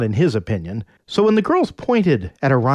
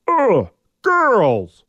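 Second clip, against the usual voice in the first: caveman grunt; 9 semitones higher, 4 dB louder than usual. Acted. Orion grunting at girls.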